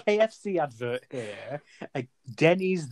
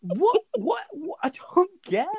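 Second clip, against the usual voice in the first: high whispered bafflement; baffled whisper; 14 semitones higher than usual. Real, not acted. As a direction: whisper your confusion. Bewildered at Texas advertising.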